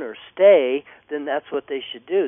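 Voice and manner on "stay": firm command. Shown as a demonstration. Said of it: "steps up and goes".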